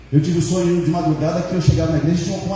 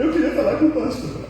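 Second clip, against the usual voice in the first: crying woman; 9 semitones higher than usual. Retold or imitated. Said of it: "a mulher entrou pelo portão já chorando".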